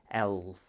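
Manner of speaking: "Elf" with the l drawn out; stress on middle sound. Shown as a demonstration. Teacher helps a child hear middle sound, stretched l in "Elf". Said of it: "emphasize the next sound".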